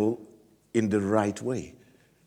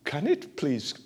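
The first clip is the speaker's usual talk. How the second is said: polite British request; 6 dB quieter than usual. Retold or imitated. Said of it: "he was not British".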